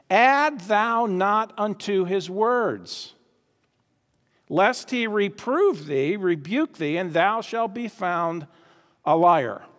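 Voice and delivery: slow, weighty verse reading; solemn scripture reading. Acted. Preacher reading Proverbs to the congregation, slow and solemn. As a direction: read it like a warning from the pulpit.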